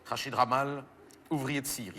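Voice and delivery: grave et retenu, en relisant la fiche; relecture à voix basse. Acted. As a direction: relire pour soi, très bas. Relit la fiche, découvre le jeu de mots. (relecture grave, à mi-voix)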